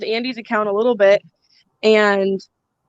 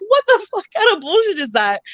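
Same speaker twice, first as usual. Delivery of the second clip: higher, outraged mock rant; retold angry outburst; 10 semitones higher than usual. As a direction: fire it back, indignant and higher.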